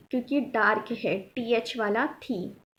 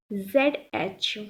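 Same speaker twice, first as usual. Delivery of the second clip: slow spelling; 3 semitones lower, slower than usual. Shown as a demonstration. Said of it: "ये ज़ेड एच है".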